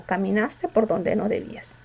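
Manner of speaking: "donde" átono, la frase pareja; donde sin fuerza. Shown as a demonstration. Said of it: "lo pronuncias sin fuerza". ("donde" pronunciado sin fuerza)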